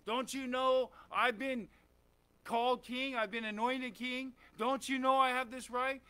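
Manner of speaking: mildly indignant protest; insistent mock grumbling; disgruntled. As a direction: act out a touch of wounded entitlement. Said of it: "he has another opportunity to be disgruntled".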